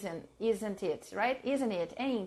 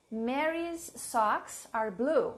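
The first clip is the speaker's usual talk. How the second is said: slow dictation; slower than usual. Shown as a demonstration. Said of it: "let's see examples".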